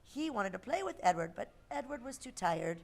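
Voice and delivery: put-on lively storybook voice for kids; reading to children. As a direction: read a picture book aloud.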